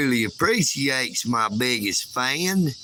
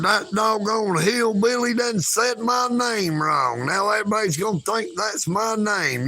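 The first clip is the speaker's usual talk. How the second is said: put-on much higher, half-sung little-girl complaint; sing-song a small girl's grumble; imitating a little girl; 6 semitones higher than usual. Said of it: "You should have said".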